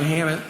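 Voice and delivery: "hammock" said as "hammit"; "hammock" ending in a T. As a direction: swap the final K of "hammock" for a T. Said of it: "Is it hammock with a T?".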